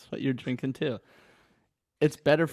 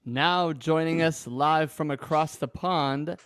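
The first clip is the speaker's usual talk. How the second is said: drawn-out, hammed-up announcer intro; mock announcer; much slower than usual. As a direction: stretch the name out like a ring announcer. Hammed-up guest introduction on podcast.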